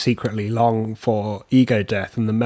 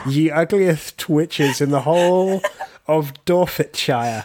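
olde town crier; 3 semitones higher, slower than usual. Pretend. Mock sixteenth-century pamphlet read.

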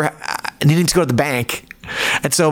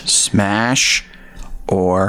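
whispered answer; 7 semitones lower than usual. Real, not acted. Guest answering the lightning round, whispered. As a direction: breathe the word like a secret.

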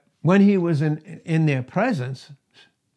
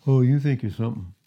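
lightly voiced mocking accuser, quick; doubters' taunt; faster than usual. Doubters taunting Paul as retold by the preacher, mocking. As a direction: toss it off fast as a retold jeer. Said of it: "they were saying to him".

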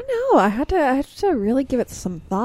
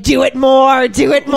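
egging on; 2 semitones higher, 6 dB louder than usual. Retold or imitated. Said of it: "my sister and I are like".

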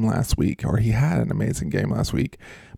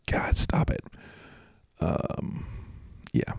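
whisper; 5 semitones lower, 9 dB quieter than usual. Real, not acted. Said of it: "whispered aside".

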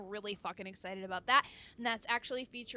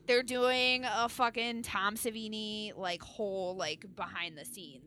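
excited. Retold or imitated. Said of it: "I was like".

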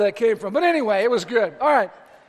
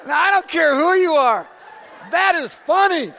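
higher and louder, words broken by laughter; laughing through words; 6 semitones higher, 6 dB louder than usual. Real, not acted. Preacher telling the congregation the corn story, laughing. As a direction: talk while still laughing.

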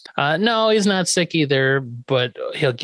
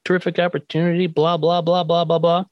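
polite; 4 semitones higher than usual. Retold or imitated. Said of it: "Eddie is so polite".

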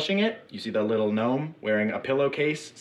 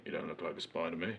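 appreciative; 5 semitones lower, 12 dB quieter, faster than usual. Acted. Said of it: "looks you up and down appreciatively".

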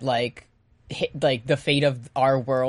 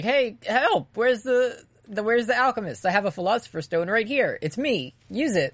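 put-on panicky old man; 7 semitones higher than usual. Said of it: "he's like".

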